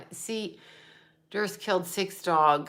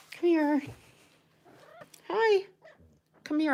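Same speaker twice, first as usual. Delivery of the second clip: higher sing-song pet talk; cooing to a pet; 9 semitones higher, 3 dB quieter than usual. Real, not acted. Calling her cat over, higher cooing pet voice.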